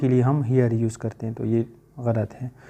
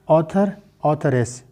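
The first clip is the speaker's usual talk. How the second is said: slow teaching demo; 2 semitones higher, slower than usual. Shown as a demonstration. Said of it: "female के लिए हम authoress".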